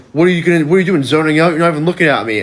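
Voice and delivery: lightly acted picking on someone; mock confrontation. Troublemaker confronts riders for zoning out, mock confrontational.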